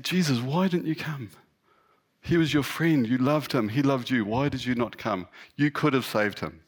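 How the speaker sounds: acted reproachful plea. Sisters reproach Jesus over brother's death.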